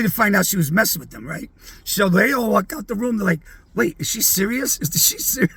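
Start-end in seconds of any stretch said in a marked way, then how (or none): 3.8-5.5 worried half-whisper. Retold or imitated. Band members worried in hallway.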